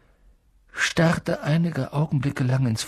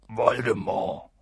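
fearful; 4 semitones lower, 4 dB quieter than usual. A narrator's reading. Feared name finally forced out.

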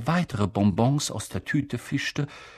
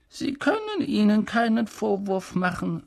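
gentle Dumbledore; 9 semitones higher than usual. A narrator's reading. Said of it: "sagte Dumbledore sanft".

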